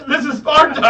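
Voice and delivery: loud, high hammed-up battle line; mock war cry. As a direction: belt it like a movie warrior. Second movie war cry.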